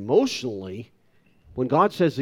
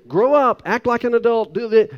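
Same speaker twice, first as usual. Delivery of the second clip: mock scolding, a bit louder; a hint of a scolding parent; nagging grown-up; 8 semitones higher, 4 dB louder than usual. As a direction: imitate people telling him to grow up. People nagging him to grow up.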